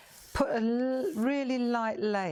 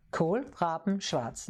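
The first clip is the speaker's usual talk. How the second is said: Kohlraben schwarz drawn out slowly, syllable by syllable; slow Kohlraben schwarz right down so they can copy it; slower than usual. Shown as a demonstration. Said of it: "Can you say that slowly?".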